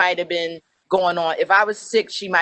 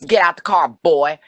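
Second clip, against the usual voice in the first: put-on barked command, voice dropping low on boy; gruff cop order; 3 semitones lower, 5 dB louder than usual. Trooper barking at her father to get out, menacing. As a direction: bark it like a hostile trooper.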